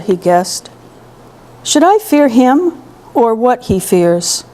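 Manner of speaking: measured poetry reading with deliberate pauses; careful, unhurried recital with breaks between phrases; poem reading. Acted. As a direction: read the poem aloud, letting each phrase settle. Reads own poem aloud.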